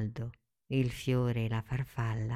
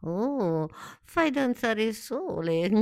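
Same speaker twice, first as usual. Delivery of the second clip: wonder; 8 semitones higher, 3 dB louder, slower than usual. Acted. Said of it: "spalancò gli occhi dalla meraviglia".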